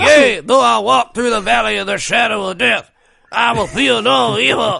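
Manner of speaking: mock Mister T Bible reading. Co-host hamming up Mister T reading the Bible aloud. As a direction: boom the verse like a tough-guy preacher. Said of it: "I could watch Mister T read Bible verses".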